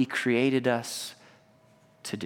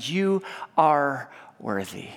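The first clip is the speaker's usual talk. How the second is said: gentle whisper; slower than usual. Acted. God whispering to a hurting heart, gentle slow whisper. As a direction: breathe it into their heart. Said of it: "he whispers like a gentle".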